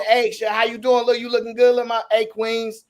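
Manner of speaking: a touch of a flirty street greeting; smooth hype man. Retold or imitated. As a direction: play the slick guy hyping up women. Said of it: "You changed the tone".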